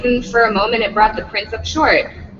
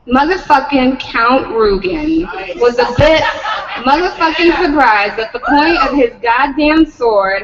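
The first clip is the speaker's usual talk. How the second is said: laughing through words. Real, not acted.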